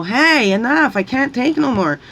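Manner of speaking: retelling her own exasperated shout; fed-up outburst. Retold or imitated. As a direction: finally snap and put your foot down. Voices herself finally setting boundaries.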